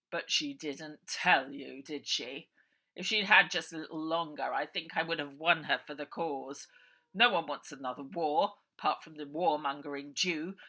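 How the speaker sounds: loud, falsely kind uncle voice; smooth villain. A narrator's reading. Uncle Arthur sending Bonnie to bed, falsely kind. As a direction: soothe the child while hiding menace.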